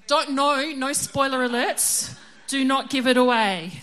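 loud, firm, stress on "it"; 大声警告，重读 "it"；don't you dare tell me, loud; emphatic warning. Real, not acted. Begging no spoilers, emphatic.

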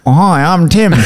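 laughing mock Tim voice; quick jokey impression of co-host. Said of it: "Give us your best Tim impression".

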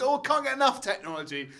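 high-pitched mock gushing; mock enthusiasm. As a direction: gush it, poking fun at the character. Mimics a tech-loving daughter's attitude.

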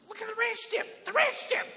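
shrieking panic. Retold or imitated. Panicking guest pointing at the ranch dip, squeaky. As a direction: freak out over the ranch dip.

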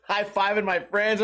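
normal talking voice

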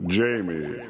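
slow, dramatic spooky host voice; horror trailer voice. Acted. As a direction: announce it like a creepy movie trailer.

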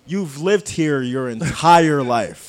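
mock-baffled question breaking into laughter; incredulous laughing question. Mocking Bronx-born Dominicans' accent.

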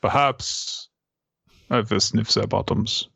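put-on formal voice for a dog; mannered, measured canine gentleman; dignified dog voice. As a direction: play the dog as a stately gentleman. Voices the dog's thoughts.

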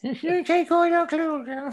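put-on high, slow, leering old man; creepy old man voice. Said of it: "the old man from, um, Family Guy".

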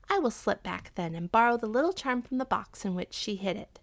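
lightly voiced wife, lively and plotting; a hint of an excited schemer; eager scheming wife. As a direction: lay out the plan eagerly, lightly acted. Wife figure in narrated tale.

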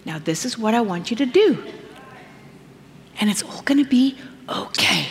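gentle hushed reassurance; soft whisper. Pretend. God speaking gently to a calmed believer, whispered. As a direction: whisper it like a comforting promise. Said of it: "he's gonna say".

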